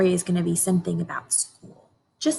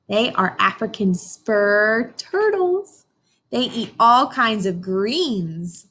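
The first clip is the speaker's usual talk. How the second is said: put-on reading to children. Teacher reads picture book aloud.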